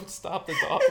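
ordinary talk

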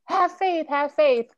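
sing-song platitude, high and loud; mock "have faith". Retelling what people always tell her, mock platitude. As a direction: mimic the stock advice people give. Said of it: "you always say".

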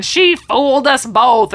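slow, high mock outburst; bizarre rant. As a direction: draw it out in a hammed-up rant. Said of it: "he's so bizarre in his little rant".

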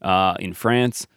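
put-on light Minnesota accent Raul. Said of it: "with a North Minnesota accent".

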